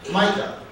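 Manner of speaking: "Micah" said MY-kah, rising; "Micah" as MY-kah, lifted at the end; prophet's name pronunciation. Shown as a demonstration. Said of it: "as it is pronounced".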